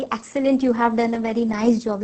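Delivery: unenthusiastic, slow praise; moodless praise. Shown as a demonstration. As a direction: praise them with no excitement at all. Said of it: "लेकिन आप ऐसे एकदम moodless होके बोलते हैं".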